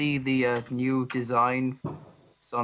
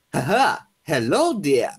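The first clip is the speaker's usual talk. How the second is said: swooping, goofy cartoon greeting; loud, wobbly attempt at a cartoon hero; off Sonic voice; 6 dB louder, slower than usual. Shown as a demonstration. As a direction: try a not-quite-right mascot voice. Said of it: "how do I make an off Sonic voice".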